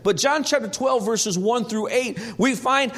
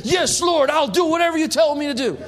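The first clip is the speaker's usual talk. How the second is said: eager yes; 5 semitones higher, 4 dB louder than usual. Retold or imitated. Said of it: "I said".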